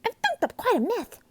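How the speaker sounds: put-on high, loud dismay of a young girl. A narrator's reading. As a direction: wail it like a girl in trouble. Girl dismayed at her creation.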